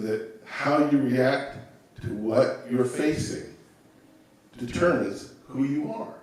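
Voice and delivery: slow, weighing each word; slow and deliberate. Shown as a demonstration. Speaker to listener, sharing her motto, slow and deliberate. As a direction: lay out the life lesson slowly. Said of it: "So I learned very young that".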